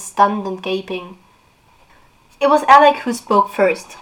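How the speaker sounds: lively read-aloud of a novel; expressive book reading; story narration. Acted. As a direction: read the scene like an audiobook. Reads novel passage aloud.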